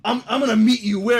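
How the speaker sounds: high, loud mock disbelief; mock confused victim. Pranked kid asking where to meet, mock indignant. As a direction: act baffled and outraged. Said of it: "people would always be like".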